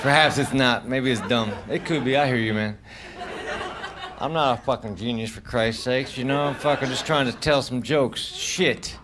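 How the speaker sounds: low, soft muttered defence; sulky quiet complaint to the audience; defensive grumble. Real, not acted. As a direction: grumble it under your breath at the crowd. Defensive mumble at crowd.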